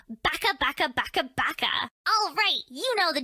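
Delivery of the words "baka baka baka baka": car horn imitation. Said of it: "do you know what it would sound like".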